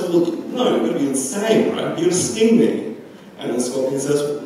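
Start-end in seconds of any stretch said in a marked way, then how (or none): 0.0-3.0 frog voiced higher, wary and incredulous. Storyteller voices the frog refusing the scorpion, higher and wary. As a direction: play the doubtful frog a step up in pitch.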